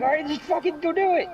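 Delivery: high mock-urgent yell; exasperated sitcom characters. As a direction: order it in comic desperation. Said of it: "They're like".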